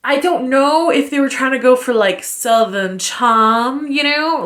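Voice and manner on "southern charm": slow, stretched Southern drawl; lightly mocked Southern drawl. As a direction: draw the vowels out like a mock Southerner. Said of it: "kind of slow, descriptive drawl".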